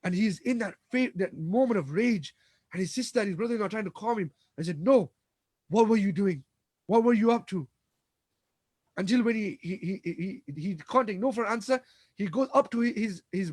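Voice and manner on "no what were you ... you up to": angry demand. Acted. Umar confronting sister in rage.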